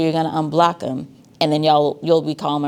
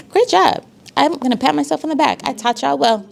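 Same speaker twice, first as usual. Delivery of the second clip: excited praise; 10 semitones higher than usual. Real, not acted. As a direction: cheer the class on. Praising the class, pleased.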